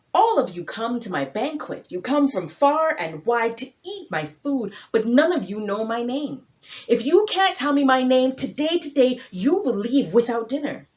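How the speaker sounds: loud, proud king addressing his guests; a big hippo king laying down the rule; booming hippo king. Acted. Hippo speaks at banquet.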